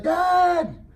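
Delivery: high, loud whiny shout; a kid digging in, yelling up high; child's shout. Retold or imitated. Son refusing to move, high loud shout at dad. Son protesting, planted feet.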